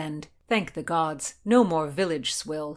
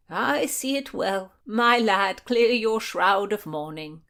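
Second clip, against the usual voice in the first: sympathizing; 4 semitones higher, 7 dB louder than usual. A narrator's reading. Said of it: "the Marquis sympathized".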